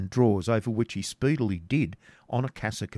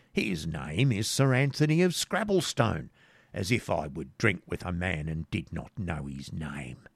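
bluffing hermit; 2 semitones lower than usual. Acted.

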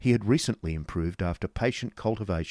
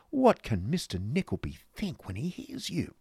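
high-pitched reproach; scolding wife; 9 semitones higher than usual. Acted. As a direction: madame chiding her husband before company. Wife scolds her husband.

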